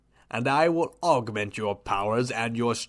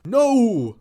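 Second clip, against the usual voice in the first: sharp high loud shout of protest; a sudden, loud, high "No!"; shocked cry; 11 semitones higher, 6 dB louder than usual. Acted. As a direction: cry out in alarm.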